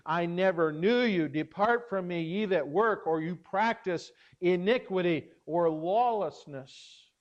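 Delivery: firm, emphatic pronouncement of final judgement; authoritative proclamation. Acted. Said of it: "proclaim with all authority and finality".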